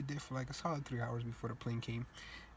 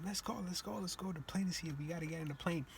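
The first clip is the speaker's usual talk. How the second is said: higher-pitched mom rushing the family; hurrying mom; 5 semitones higher than usual. Retold or imitated. Mom hurrying the family to the plane, higher urgent call. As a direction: urge everyone aboard, pitched up. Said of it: "My mom come".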